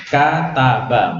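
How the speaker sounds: "Kata ba" drawn out, every syllable distinct; each letter clear. Shown as a demonstration. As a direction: slowly separate each sound of "Kata ba". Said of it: "masing-masing huruf dibaca jelas". ("Kata ba" pelan, tiap huruf dibaca sendiri)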